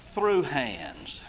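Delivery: hushed whisper of the key words; emphatic whisper. Shown as a demonstration. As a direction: breathe it for weight. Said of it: "It's a very emphatic statement".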